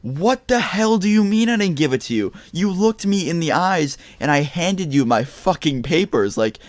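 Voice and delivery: high, drawn-out indignant outburst; retold angry snap. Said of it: "that's when I snapped".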